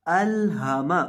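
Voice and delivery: अल हा मा said smoothly, lam short and haa clear; correct reading. Shown as a demonstration. Teacher showing students the right way, smooth even reading. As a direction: read अल हा मा evenly, no break, no lengthening. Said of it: "इसको पढ़ना है".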